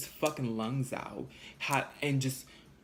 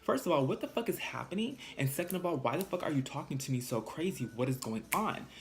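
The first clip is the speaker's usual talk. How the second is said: raised, heated clapback; heated retort; 4 semitones higher than usual. Retold or imitated. Talking back to the lady who threw her out, heated. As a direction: snap back at her, voice up high.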